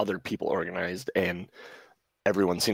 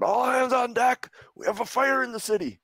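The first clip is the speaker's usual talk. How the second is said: husky yelled alarm; 5 dB louder than usual. Acted. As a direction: call all hands at the top of your range. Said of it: "a husky male voice in the hall yells out".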